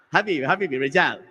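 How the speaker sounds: low-pitched, easygoing mock refusal; unbothered guard. Security guard turns away a confused customer, unbothered. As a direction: imitate a guard, not yet mad. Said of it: "he started getting a little mad".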